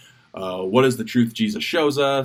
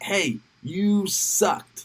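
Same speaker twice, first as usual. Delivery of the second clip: blunt coach; 8 semitones higher, much slower than usual. Retold or imitated. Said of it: "my coach was always really big about being like".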